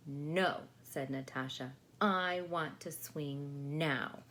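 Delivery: slow whiny demand; stubborn child. Acted. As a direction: insist like a spoiled little girl.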